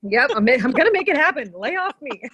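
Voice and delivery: playful protest at being nagged; mock protest. Talking back to a nagging inner voice, mock protest. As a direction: push back jokingly, on the edge of laughter.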